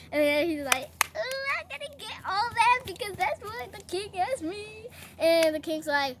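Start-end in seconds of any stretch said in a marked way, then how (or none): 1.1-4.9 higher, eager mock glee; giddy gloating. Haman sure the honor is his, giddy.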